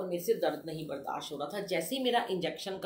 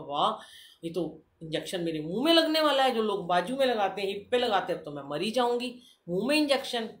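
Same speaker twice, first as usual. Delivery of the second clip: loud, alarmed retelling of her own panic; reliving the terror of a needle in the mouth; panicked protest; 3 semitones higher, 5 dB louder than usual. Retold or imitated. Patient tells the dentist she will die, loud and panicked. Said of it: "मैं तो और ज़्यादा डर गई".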